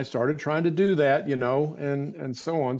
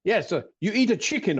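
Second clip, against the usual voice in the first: silly voice; 6 semitones higher than usual. Retold or imitated. Recalling the barefoot doctor at his bedside, in a higher silly voice. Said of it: "the silly voice I'm doing".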